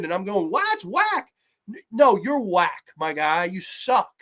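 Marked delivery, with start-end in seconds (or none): 0.5-1.3 mock dopey teen. Mocking character line.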